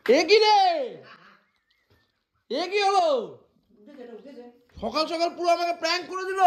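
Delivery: high-pitched wail of astonishment; stretched, high-voiced shock; pranked disbelief. Real, not acted. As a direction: cry out high, as if cheated by a prank. Reacting to being pranked.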